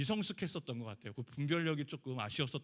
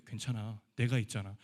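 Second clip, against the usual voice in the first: lower, smug reassurance; mock comfort; 4 semitones lower, 4 dB louder than usual. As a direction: pat her on the head with words. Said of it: "그건 위로가 아닙니다". (남편의 어설픈 위로 흉내)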